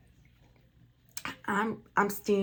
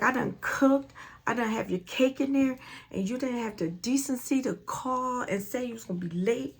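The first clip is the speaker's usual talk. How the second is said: retold anger; 4 semitones higher than usual. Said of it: "I was mad".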